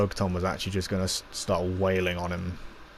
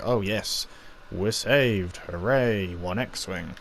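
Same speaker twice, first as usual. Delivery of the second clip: sarcastic; much slower than usual. Retold or imitated. Cara Dune mocks the lone X-Wing, sarcastic and dry. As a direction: say it like nobody believes rescue has come. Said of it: "in, like, a sarcastic sort of way".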